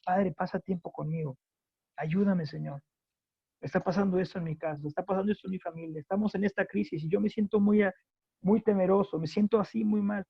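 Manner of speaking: mildly imploring, as if praying in private; acted pleading prayer. Preacher modelling a private prayer to the Lord, gently pleading. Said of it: "y puedes decirle".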